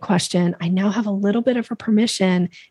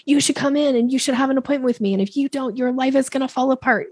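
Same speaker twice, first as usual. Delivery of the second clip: pushy salesy pitch; 5 semitones higher than usual. Retold or imitated. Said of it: "saying like".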